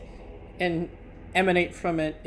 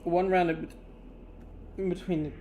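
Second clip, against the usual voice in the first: hiccups; 4 dB quieter than usual. Real, not acted. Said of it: "I keep hiccuping".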